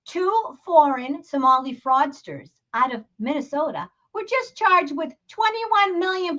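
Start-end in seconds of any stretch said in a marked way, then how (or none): 0.1-2.5 "fraudsters" enunciated with a clear r; deliberate, r-ful "fraudsters" without Boston accent; careful enunciation. Shown as a demonstration. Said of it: "I try to enunciate".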